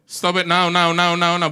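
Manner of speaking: urgent stop. Acted. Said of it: "the Holy Spirit whisper to you".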